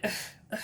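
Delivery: mock grunt of reluctance; unexcited ugh. Recapping Wendy's reaction to a guest at her party, unexcited ugh. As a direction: imitate someone grunting, far from thrilled. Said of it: "Not, like, very excited at all".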